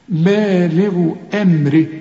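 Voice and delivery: بالغ said slowly with a light, thin ب; بالغ drawn out, the ب kept thin; thinned ba. Shown as a demonstration. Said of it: "برضو رقق بالغ".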